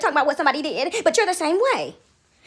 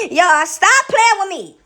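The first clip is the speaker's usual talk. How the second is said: slow, louder plea through real laughter; laughing protest; 3 semitones higher, 5 dB louder, slower than usual. Real, not acted. Speaker to y'all after cracking up, laughing protest. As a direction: beg them to stop while cracking up.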